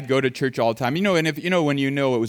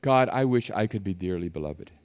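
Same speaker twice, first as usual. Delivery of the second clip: wistful longing; 7 semitones lower, 5 dB quieter than usual. Retold or imitated. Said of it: "what did I think?".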